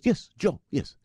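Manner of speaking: high mock Pakistani accent; bad Muslim accent. Driver answering his passenger, in a mock Pakistani accent. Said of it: "That's my really bad Muslim accent".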